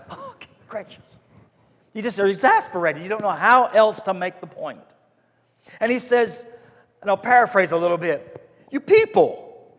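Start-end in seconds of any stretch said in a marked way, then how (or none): 0.1-1.2 whispered "oh gracious" under the breath; exasperated. Retold or imitated. An exasperated Jesus throwing up his hands, breathy whisper. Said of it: "he's like exasperated". 8.7-9.7 slow, higher "you people"; exasperated. Retold or imitated. Jesus scolding the crowd, a touch exasperated. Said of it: "he's like exasperated".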